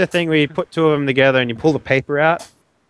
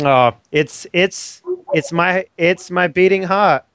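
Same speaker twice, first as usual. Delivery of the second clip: lightly played charmer, halting and a touch higher; charismatic charmer; 5 semitones higher, slower than usual. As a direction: play up the charm a little, hesitantly. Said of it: "being his charismatic self".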